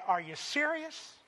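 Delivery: preacher scolding Israel in disbelief; exasperated rebuke. Retold or imitated. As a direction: shake your head at them in disbelief. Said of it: "I shake my head and say".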